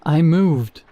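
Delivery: loud, frantic cry from the dark pit; scream. A narrator's reading. Girl in the pit screaming up at Peter, loud. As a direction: shout it up from below. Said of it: "she screamed".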